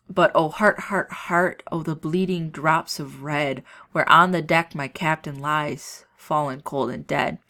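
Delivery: reads the verse aloud with feeling; a teacher reciting the elegy to the class; lightly dramatic poem recital; poem reading. Acted.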